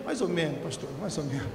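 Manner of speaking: imitated deflated young man, soft and low; mock-crestfallen, quiet falling voice; sheepish admission. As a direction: admit it reluctantly, sinking away. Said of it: "aquela cara dele de boi lambido".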